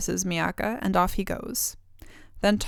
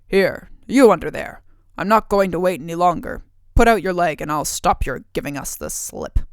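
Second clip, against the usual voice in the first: gruff ogre ordering; 7 dB louder than usual. Acted. Ogre orders boy from sofa.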